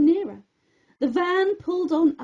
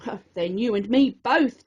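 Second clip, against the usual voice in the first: chirpy; 5 semitones lower than usual. Acted. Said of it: "John Joe chirped".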